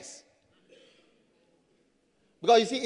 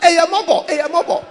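loud, high repeated holler; full-voiced calling out, higher pitch; re-enacted shout; 6 semitones higher, 11 dB louder than usual. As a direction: shout it twice, playfully. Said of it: "then I'll just shout".

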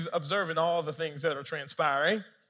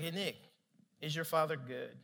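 soft, low, calm question; gentle questioning; 4 semitones lower, 10 dB quieter than usual. Retold or imitated. Holy Spirit asking Nick about his father, gentle. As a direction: ask quietly and patiently.

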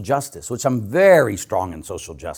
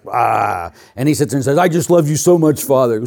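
gushing student; 3 dB louder than usual. Retold or imitated. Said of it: "he's really la-la".

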